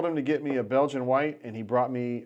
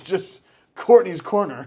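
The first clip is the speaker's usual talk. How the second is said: horror host; 7 semitones higher, 8 dB louder, slower than usual. Retold or imitated. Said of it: "She says".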